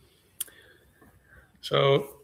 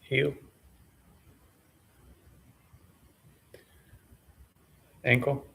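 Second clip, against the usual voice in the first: sparse, measured meditation cues with long pauses; name each body part calmly, then leave silence; unhurried meditation guide, slightly subdued; guided body scan. Real, not acted.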